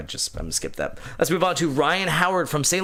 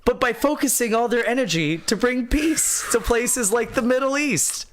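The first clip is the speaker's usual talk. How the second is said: exaggerated indignant voice; 7 semitones higher than usual. Reading as Cuban-Canadian writer.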